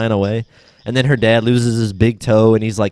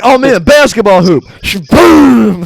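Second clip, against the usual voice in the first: put-on higher, louder kid voice; mock excitement; 8 semitones higher, 8 dB louder than usual. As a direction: hype it like a goofy kid. Acting out kids' excitement.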